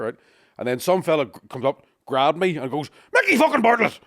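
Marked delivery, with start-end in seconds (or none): 3.1-4.0 loud, high excited yell of his name; shouted greeting. Retold or imitated. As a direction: bellow it across the bar like a fan. Fan shouting his name in bar.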